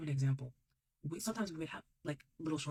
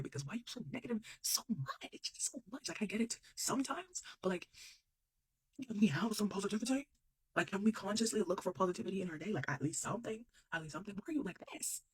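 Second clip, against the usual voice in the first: exasperated whine; 6 semitones higher than usual. Retold or imitated. Exasperated rant at ex.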